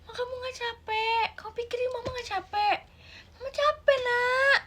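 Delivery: high crying plea; tearful mother. Acted. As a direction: beg the child, close to tears. (ibu memohon sambil menangis)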